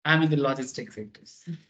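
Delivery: slow, half-laughing mock of a boaster; imitating people who talk big for style; a teasing, self-important drawl through a laugh; mock show-off. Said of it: "लोग ना style के लिए बोलता है".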